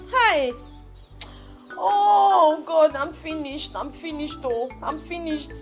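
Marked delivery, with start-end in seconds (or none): 1.7-5.5 weep out that everything is lost; crying in despair. Acted. Mother hears shops burnt down.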